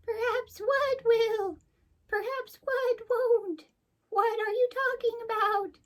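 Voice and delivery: very high, slow buzzy bee queen. Acted. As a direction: draw out each question in a tiny high bee voice.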